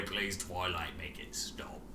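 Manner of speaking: soft, breathless whisper of a plea; faint plea. Acted. Rainbow Dash begging Twilight to stop, whispering weakly. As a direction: barely get the words out.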